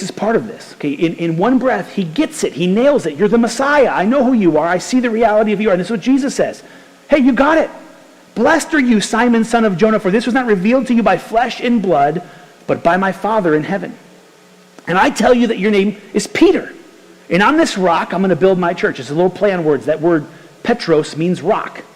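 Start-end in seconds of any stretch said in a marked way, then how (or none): 3.1-5.7 Peter's confession bursting out, louder and higher; excited confession. Retold or imitated. 7.1-19.0 Jesus praising Peter, raised and bright with joy; joyful blessing. Retold or imitated.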